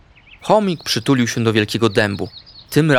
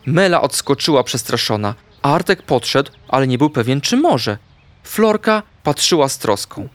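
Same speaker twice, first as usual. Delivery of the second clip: ordinary delivery, nothing marked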